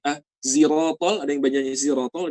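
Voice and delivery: zirotol with a buzzing z; wrong z sound. Retold or imitated. Teacher imitating a wrong reading. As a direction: read siratal as zirotol.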